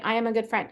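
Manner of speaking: "I am a good friend" settling down at the end; statement tune. Shown as a demonstration. Coach repeating the I am statement, not a question, falling tune. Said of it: "It's not a question".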